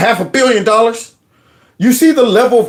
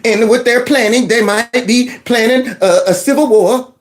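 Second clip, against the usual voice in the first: imitating Maxine Waters; 2 semitones higher than usual. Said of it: "Mad Max last night on my show".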